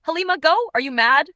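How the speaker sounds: high, loud scolding shout; angry shout. A narrator's reading. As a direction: shout the order like a furious mother. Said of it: "Mama shouted from behind".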